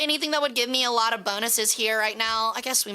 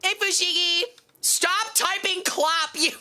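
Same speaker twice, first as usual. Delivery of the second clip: calling out teasingly; 7 semitones higher than usual. Real, not acted. Calling out friend in chat.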